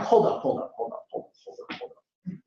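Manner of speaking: trailing off to almost nothing; fading protest. Acted. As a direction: repeat it, shrinking into a barely voiced murmur. Acted protest to mom, fading away.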